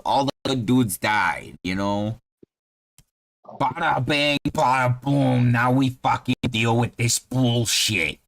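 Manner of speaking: put-on level with them in a punchy Boston accent; Boston halfling. Halfling tells the traveller how the plague hit, brash Boston accent. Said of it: "Yeah, he's from Boston".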